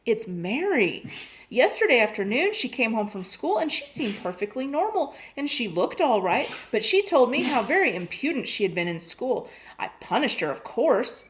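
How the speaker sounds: a mother fretting over her daughter; lightly voiced upset mother on the phone. Worried mother pours out trouble.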